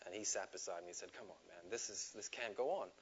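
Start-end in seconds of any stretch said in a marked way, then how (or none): 1.1-2.9 soft, coaxing good cop. Retold or imitated. Good cop coaxing the teen, softly. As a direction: gently talk him round.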